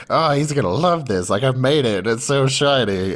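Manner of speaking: pleased with her mud ball; proud girl. Retold or imitated.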